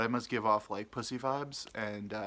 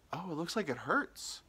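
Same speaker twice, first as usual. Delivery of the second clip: imitated old lady; 5 semitones higher than usual. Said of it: "this ninety-year-old lady".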